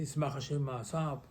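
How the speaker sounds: slow solemn recital. Shown as a demonstration. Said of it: "I say".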